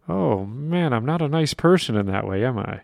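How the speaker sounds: light sarcasm, dropping away to a laugh; kidding, as if owning up; sarcastic. Real, not acted. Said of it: "I used sarcasm twice today".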